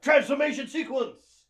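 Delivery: high, loud announcer cry; transformation sequence. Pretend. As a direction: shout it like a cartoon intro.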